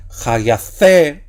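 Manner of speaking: "Ja, gia, C" slowly, with C drawn out and stressed as "theh"; acute accent stress. Shown as a demonstration. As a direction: lean hard on the "C" in "Ja, gia, C". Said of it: "y entonamos el acento".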